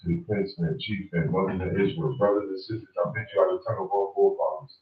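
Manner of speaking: brisk, low recited praise; formal salutation. Real, not acted. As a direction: rattle off the formal blessing in a low, practised recital.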